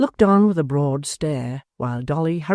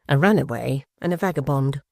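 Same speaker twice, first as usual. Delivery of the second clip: scornful wife. A narrator's reading. Wife disparaging Joe.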